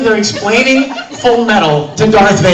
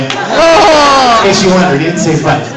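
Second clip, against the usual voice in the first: comic aside; 7 dB louder than usual. Real, not acted. Loud comic aside over laughter.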